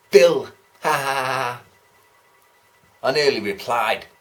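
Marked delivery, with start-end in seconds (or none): 0.1-0.5 much louder punchline, triumphant. Retold or imitated. The bus bore shouting his punchline with glee. 0.8-1.6 imitating his forced laugh; mock laugh. The bus bore laughing at his own joke, mock laugh.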